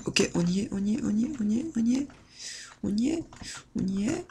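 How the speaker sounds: tense whisper. Real, not acted. Tense excited gaming.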